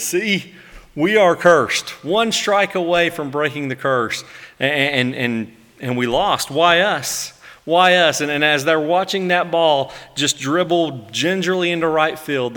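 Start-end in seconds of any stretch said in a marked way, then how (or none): 0.0-8.2 despairing Mets fan. Retold or imitated. Mets fan groaning at the collapse, hammed-up despair. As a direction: whine it like a fan who just lost. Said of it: "And the Mets fan says".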